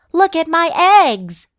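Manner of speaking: high, loud proud exclamation; excited shout. A narrator's reading. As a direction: show them off loudly. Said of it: "she shouted".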